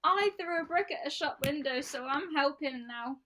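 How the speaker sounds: high, mocking rioter voice. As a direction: sneer it like a smug rioter. Mocking rioters' self-justification.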